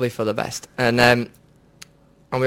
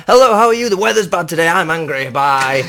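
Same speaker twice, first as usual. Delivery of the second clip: high, loud hammed-up rapid greeting; mock angry rant; 3 semitones higher, 4 dB louder than usual. Imitating his friend chatting up a woman, loud mock rant. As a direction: rattle it off like an angry torrent. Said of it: "He's like".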